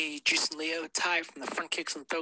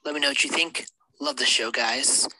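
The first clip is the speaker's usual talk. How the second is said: sexy sultry voice. Pretend. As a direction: try to sound seductive. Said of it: "sexy, sultry voice".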